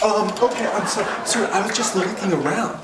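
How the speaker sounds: high-pitched, flustered pleading; mock panicked apology. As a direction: act out a scared customer apologising. Frightened customer apologising when thrown out.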